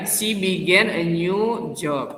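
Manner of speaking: slow, careful reading of the answer; teacher reading the correct answer slowly; slow read-aloud. Shown as a demonstration. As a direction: read "She began a new job." out slowly, each word clear. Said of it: "Yang B kan?".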